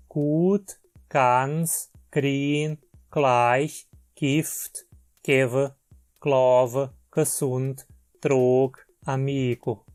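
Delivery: each g said like a hard k. Shown as a demonstration. Teacher shows g words, each said as k. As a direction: model the k sound for every g. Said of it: "G é pronunciada como um K".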